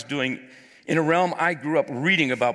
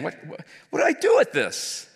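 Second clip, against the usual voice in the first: a loud, higher plea, stumbling on the repeats; crying out to God; 9 semitones higher, 4 dB louder than usual. Retold or imitated. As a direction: cry out to God in desperate prayer. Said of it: "I cried out to the Lord".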